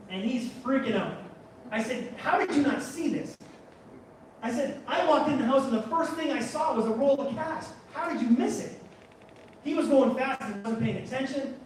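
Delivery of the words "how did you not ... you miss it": higher, disbelieving retort; incredulous. Retold or imitated. Teller to friend who missed the cash, incredulous. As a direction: challenge him in disbelief.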